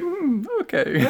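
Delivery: high, slow judging hum; a drawn-out skeptical mm okay; imitating mum. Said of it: "And she's like".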